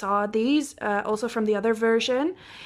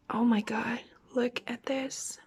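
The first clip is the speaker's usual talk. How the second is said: awed whisper; 5 dB quieter than usual. Real, not acted. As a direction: whisper it, stunned. Whispers in awe at the card.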